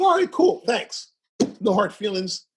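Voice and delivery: high, bright "All right, cool"; breezy mock-cheerful. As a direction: shrug it off cheerfully. Breezy reply to getting fired.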